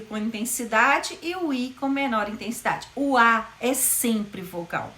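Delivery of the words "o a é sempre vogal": slow, deliberate O A é sempre vogal; slow teaching emphasis. Shown as a demonstration. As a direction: spell it out slowly for students. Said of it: "sempre semivogais".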